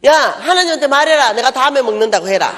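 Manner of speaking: loud sulky snap back; retold angry retort. Preacher sulking at her friend, loud retold retort. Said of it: "이러고 막 화가 난 거예요".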